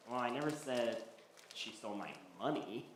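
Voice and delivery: "money" set apart after a short lead-up; understated reply with the weight on "money"; stress on MONEY. Acted. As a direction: lean on "money" at the end. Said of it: "The money was the emphasis".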